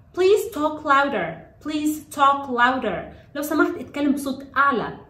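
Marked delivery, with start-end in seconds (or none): 0.1-3.1 very slow, drawn-out instruction with falling ends; slow model phrase. Shown as a demonstration. Teacher models a classroom instruction for children, very slowly. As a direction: space out each word for learners.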